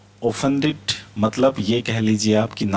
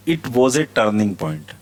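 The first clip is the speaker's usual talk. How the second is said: slow and deliberate; slow model reading; much slower than usual. Shown as a demonstration. Teacher reads the example slowly to students. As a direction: read it slowly for the class. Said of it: "teacher models example sentence".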